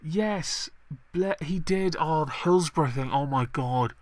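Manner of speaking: high, indignant outburst; outraged. Real, not acted. Outraged reaction to the Hillsborough clip.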